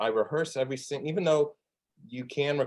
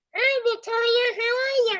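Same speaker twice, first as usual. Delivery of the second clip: very high, loud cartoon puppet voice; 5 dB louder than usual. Showing off the voices they've done all their life, in an Elmo voice. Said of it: "Or I could sound like Elmo".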